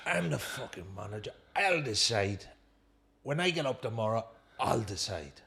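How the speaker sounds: poorly imitated Geordie manager; bad Geordie accent. Manager telling player who decides, in bad Geordie. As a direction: pull rank in a badly faked Geordie accent. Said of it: "That's the worst Geordie accent you'll ever hear".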